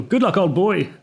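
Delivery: high, jolly British caricature; cheerful old-boy British. Retold or imitated. Storyteller mocking the official's farewell, cheerful and very British. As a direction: send them off like a jolly British chum. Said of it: "like a cheerful".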